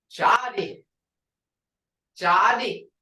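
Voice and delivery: Jody, the j between ch and sh; Muskogee word. Shown as a demonstration. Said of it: "When you put G R, you get ja".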